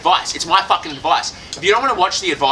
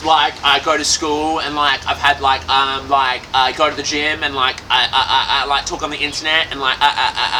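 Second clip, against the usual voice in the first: mocking unconfident fan; 3 semitones lower than usual. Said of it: "And they're like".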